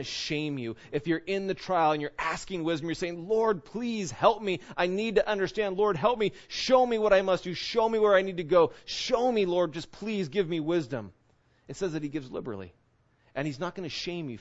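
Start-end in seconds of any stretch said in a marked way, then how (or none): 3.3-11.1 higher and louder, urgent plea to God; pleading prayer. Retold or imitated. A struggling believer asks the Lord for wisdom, pleading.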